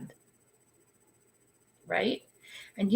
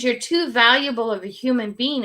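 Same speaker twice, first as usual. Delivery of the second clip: bossy tone; 2 semitones higher, 5 dB louder than usual. Retold or imitated. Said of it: "I get that tone".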